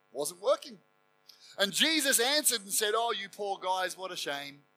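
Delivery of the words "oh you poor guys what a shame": mock soothing pity. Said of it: "No, he didn't".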